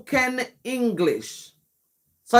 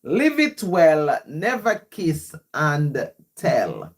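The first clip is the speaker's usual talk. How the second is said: rhythmic, rhyming spoken-word delivery; poem recital; 2 semitones higher than usual. Acted. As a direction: recite it line by line, punching the openings and easing down at the end.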